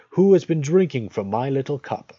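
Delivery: high, loud indignant dwarf voice; seventh dwarf. A narrator's reading. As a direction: pipe it up as the smallest cross dwarf. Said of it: "The seventh said".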